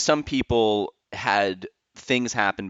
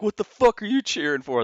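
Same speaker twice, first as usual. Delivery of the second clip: much higher, incredulous snap; mock annoyed singer; 12 semitones higher than usual. Host voicing the singer snapping at a cheering crowd. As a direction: throw it at the crowd in disbelief. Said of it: "And you're like".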